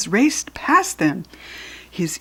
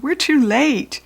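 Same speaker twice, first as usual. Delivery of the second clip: alarmed; 6 semitones higher, slower than usual. A narrator's reading. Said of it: "said Kirsty in alarm".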